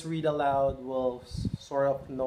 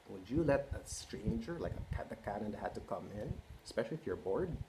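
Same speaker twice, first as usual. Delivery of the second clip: much softer, leaning in; conspiratorial hush; 3 semitones lower, 5 dB quieter than usual. Real, not acted. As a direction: ask it like a secret. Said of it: "hushed question to kids".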